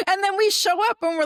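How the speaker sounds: laughing through the words; breaking into a laugh mid-story. Real, not acted. Telling the host about meeting the family, laughing.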